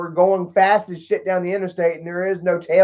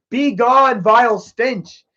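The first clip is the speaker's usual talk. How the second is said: slow, higher, hammed-up banishing; mock exorcism; 5 semitones higher, slower than usual. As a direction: command the stench away like a wizard.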